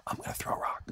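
conspiratorial whisper to sister; quiet whisper. Retold or imitated. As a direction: lean in and whisper the secret. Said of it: "quietly, as if I couldn't hear".

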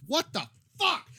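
high, stunned exclamation; shocked outburst. Retold or imitated. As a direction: react in disbelief. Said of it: "I just".

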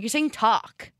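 "talk" said the Jersey way, rounded; mimicking accent. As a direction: imitate family pointing at "talk". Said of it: "And like".

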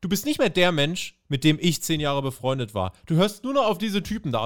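lightly hammed-up lofty outrage; half-hearted pompous Cole; mock pompous. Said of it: "Cole meint".

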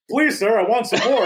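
put-on high, pleading orphan boy; Oliver's plea. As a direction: beg like little Oliver. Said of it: "when Oliver goes up and goes".

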